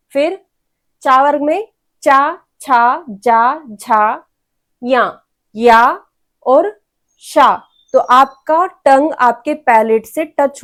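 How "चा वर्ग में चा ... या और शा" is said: चा, छा, जा, झा, या, शा each drawn out very slowly; slow palatal sounds. Shown as a demonstration. Teacher models the चा वर्ग slowly for students to repeat. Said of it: "देखिए बोल के".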